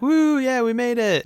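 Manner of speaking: very high cheer; mock celebration. Dwarves floating safely down river, high gleeful cheer. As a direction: whoop it in a put-on high voice. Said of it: "they're like".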